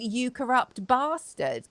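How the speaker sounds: accusing quote. Retold or imitated. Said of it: "pointing the finger saying".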